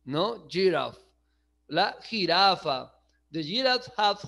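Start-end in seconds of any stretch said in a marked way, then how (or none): 0.5-1.0 teacher repeating English "Giraffe" for learners; English pronunciation. Shown as a demonstration. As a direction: model "Giraffe" lower, with a falling end. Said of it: "la pronunciación es giraffe".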